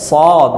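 heavy rounded s in সদ; careful demo of emphatic সদ; thick pronunciation. Shown as a demonstration. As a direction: fill the mouth on সদ, a thick Arabic sad. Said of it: "যে মোটা করে উচ্চারণটা".

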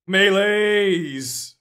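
loud high giggling laugh; cartoon laugh. Real, not acted. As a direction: burst out cackling. Excited laugh at melee drop.

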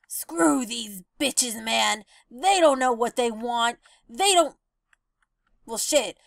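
lightly voiced seagull shrugging off rejection; jaded seagull. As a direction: mutter like a spurned bird. Same rejected seagull line.

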